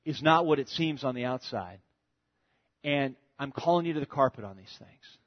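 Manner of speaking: a quiet, gentle retold father, lightly voiced; sit him down and reason with love, softly; loving fatherly talk. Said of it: "he confronted him in a loving way".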